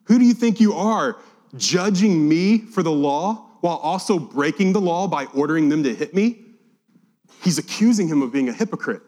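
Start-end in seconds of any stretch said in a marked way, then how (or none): 0.0-6.5 indignant rebuke. Acted. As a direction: hurl the charge back at him. Paul rebukes the high priest.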